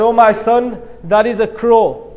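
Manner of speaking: patient, even-voiced fatherly answer; gently retold answer, in an easy unhurried tone; loving patience. Father answers his little son's question, loving and patient. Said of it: "I told you with so much love and passion".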